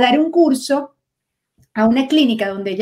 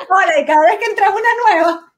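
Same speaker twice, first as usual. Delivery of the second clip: high, laughing delivery; real laughter lifting the voice; laughing while talking; 6 semitones higher, faster than usual. Real, not acted. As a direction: crack up while telling the story. Laughing at own group name.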